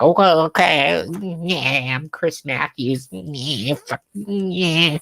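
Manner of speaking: mock-nervous giving in; hammed-up fired anchor caving; Chris Matthews impression. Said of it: "And he's like".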